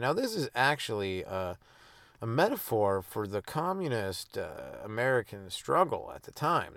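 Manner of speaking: slow, deliberate mock reviewer read; lightly hammed-up show host; mock podcast host. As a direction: present it like a pompous cartoon critic.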